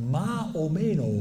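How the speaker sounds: dropped final s in Andalusian "más o menos"; drawn-out Andalusian "más o menos", s sounds swallowed; Andalusian accent. Retold or imitated.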